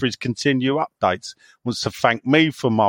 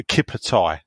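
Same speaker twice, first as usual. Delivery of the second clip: Kippertie said the Brummie way, like cup of tea; 6 semitones lower than usual. Shown as a demonstration. Showing the others the Brummie cup of tea, Kippertie. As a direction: say Kippertie in a Birmingham accent. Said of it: "if you wanna think of a Brummie voice".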